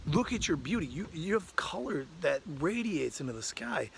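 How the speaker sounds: earnest, emphatic admiration; impassioned praise. Acted. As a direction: insist with rising enthusiasm. Crow argues with caged peacock.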